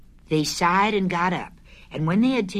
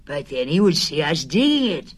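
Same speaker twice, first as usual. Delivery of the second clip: a gentle bear puzzling aloud; Pooh voice; 5 dB louder than usual. Acted.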